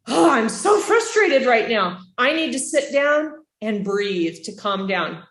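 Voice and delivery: modeling frustration. Shown as a demonstration. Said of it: "it's okay for you to say".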